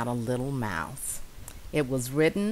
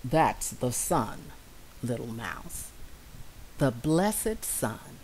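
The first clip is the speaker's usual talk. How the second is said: bee voice; 4 semitones lower than usual. Acted. Bee answers.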